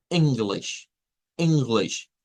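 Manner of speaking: English with a relaxed short I at the start, pitch falling. Shown as a demonstration. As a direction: model English slowly with two short, lax I sounds. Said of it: "la vamos a pronunciar como I". (English con dos íes cortas)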